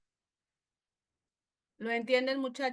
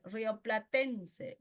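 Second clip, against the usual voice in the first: "Rioplatense" slowly, stressed on TEN; acento en segundo término; much slower than usual. Shown as a demonstration. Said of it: "el acento siempre va a recaer en el segundo término". ("Rioplatense" lento, acento marcado en TEN)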